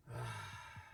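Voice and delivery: breathy unvoiced sigh; a storyteller sighing at the lack of wine; weary sigh. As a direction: let out a long tired sigh. Narrator sighs over wine.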